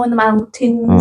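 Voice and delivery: slow, lilting try at Welsh; mock Welsh accent. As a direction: stretch it out in put-on Welsh. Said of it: "Welsh is about sheep".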